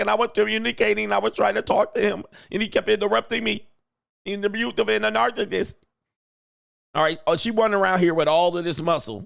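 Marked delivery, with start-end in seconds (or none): 0.0-3.7 derisive, rough, creaky, arguing woman's voice. Mocking how women sound when arguing: imitating women arguing. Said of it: "they literally be like".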